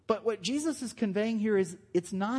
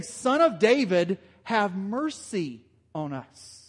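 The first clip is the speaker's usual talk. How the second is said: calling out; 3 dB louder, slower than usual. Retold or imitated. Blind men call out to Jesus.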